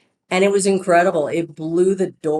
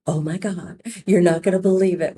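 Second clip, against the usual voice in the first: lightly imitated Southern accent; 3 semitones higher than usual. Saleswoman phoning her boss with news, light Southern accent. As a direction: retell her excited call with a touch of Southern. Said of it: "with her Southern accent".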